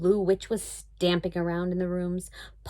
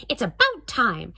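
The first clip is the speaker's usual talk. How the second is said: threatening; 3 semitones higher, 4 dB louder than usual. Acted. Witch threatens Dory.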